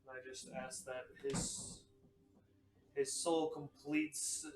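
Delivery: slow, hushed prayer to a fallen friend. Acted. Character prays to dead Magnus.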